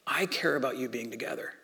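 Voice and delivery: whispered, intimate and gentle; a tender whisper of comfort; soft whisper. Retold or imitated. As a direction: lean in and breathe the words like a secret. God speaking tenderly to believers.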